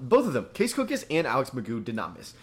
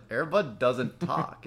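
slow, spaced-out correction at usual volume; measured correction; much slower than usual. Retold or imitated. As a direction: correct them slowly, holding back. First, calmer retort to girlfriend.

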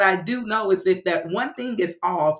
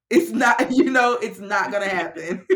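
laughing insistence; 4 dB louder than usual. Real, not acted.

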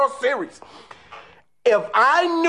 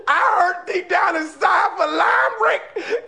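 mock crying; 5 semitones higher, slower than usual. Grieving for the losing team.

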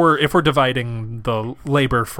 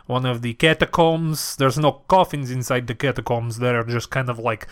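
campy vampire, settled into small talk; host guests as a comic vampire; Vamp Boy. Pretend. Inviting new vamps back to his mansion, vampire voice.

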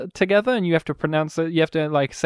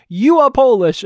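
president voice; 6 semitones higher, 7 dB louder than usual. Pretend. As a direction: proclaim it solemnly. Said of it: "looking at me saying".

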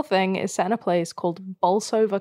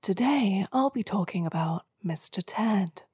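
lightly put-on guide introduction, slightly hushed; tour guide voice; 5 dB quieter than usual. Shown as a demonstration. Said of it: "Imagine you did the podcast in that voice".

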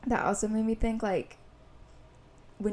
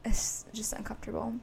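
soft unvoiced whisper; 6 dB quieter than usual. Real, not acted. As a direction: breathe it out quietly. Confiding about hairdresser.

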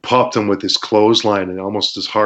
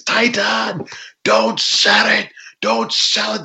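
higher voice, urging not to sell; imitating the referee's hushed order; referee's urgent instruction; 13 semitones higher, slower than usual. Wrestler retelling referee telling him not to sell, higher urgent voice. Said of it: "the referee, is".

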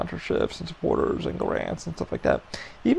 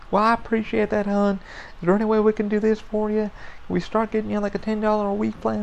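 lightly voiced sweet call center lady, a bit higher; a hint of a sugary customer service voice; 5 semitones higher than usual. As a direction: coax like a syrupy phone agent. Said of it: "that's how she talked".

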